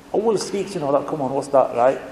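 mild mock incredulity; surprised. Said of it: "some of the people were surprised".

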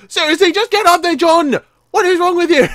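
high, loud, frustrated rant; pleading, fed-up outburst; exasperated scolding. Real, not acted. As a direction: yell at a hopeless teammate. Berating character after failing.

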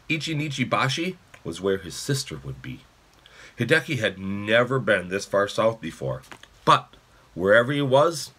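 expressive, measured audiobook reading; story narration. A narrator's reading. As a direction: read the chapter aloud to children. Reads a novel aloud.

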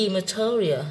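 "material" with the stress on TE; stress on second syllable. Shown as a demonstration. Teacher showing students word stress, "material" stressed on TE. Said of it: "âm thơ".

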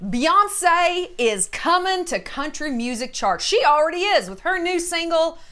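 hammed-up country-music Texas accent. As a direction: keep up a put-on Texas twang. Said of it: "I don't know that I can keep that up".

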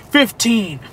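very low, slow spooky announcer; deep creepy pitch; horror trailer voice. Pretend. Announcing horror movie bundle.

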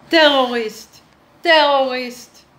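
mild mock alarm cry; alarm word for justice. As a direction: call it out like a warning. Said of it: "That is how we say justice".

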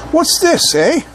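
high-pitched silly British query; British accent. Acted. Lone mosquito spots something, high silly British accent. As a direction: squeak it in a mock British accent. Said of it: "like, a stupid British accent".

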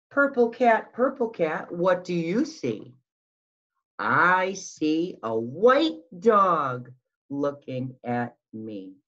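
put-on sing-song storytime voice for little kids; picture book read-aloud. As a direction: read it like circle time, lilting and slow. Reading picture book aloud to children.

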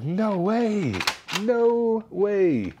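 high, retold astonishment; marveling in a high, acted voice; amazed disbelief. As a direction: re-enact being stunned, pitch way up. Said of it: "I was very surprised when I saw it".

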